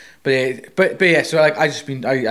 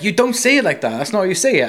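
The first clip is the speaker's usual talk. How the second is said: higher-pitched mock objection; imitating a correcting friend; 6 semitones higher, 4 dB louder than usual. Friend tells him he says the Spanish wrong, imitated correction. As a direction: correct them in a raised, acted voice. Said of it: "And he's like".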